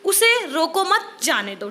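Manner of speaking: slow, with a break between मत and जाने; group "उसे रोको मत" together, then say "जाने दो"; deliberate example, split after मत; pause after मत. Shown as a demonstration. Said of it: "विराम चिन्ह के गलत प्रयोग".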